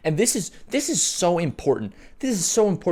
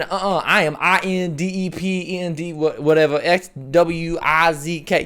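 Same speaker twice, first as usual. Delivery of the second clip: mock defiant listener; 2 semitones higher than usual. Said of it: "some of y'all who are sitting".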